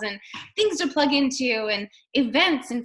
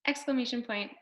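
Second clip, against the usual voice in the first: softer robot reading out punctuation; 2 semitones lower, 6 dB quieter than usual. Acted. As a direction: recite the punctuation mechanically, mildly robotic. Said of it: "Don't talk to people like a robot".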